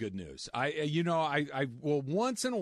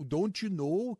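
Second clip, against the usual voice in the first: mock Minnesota accent with higher pitch; 4 semitones higher, slower than usual. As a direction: imitate the American-Canadian Minnesota sound. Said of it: "that weird hybrid American".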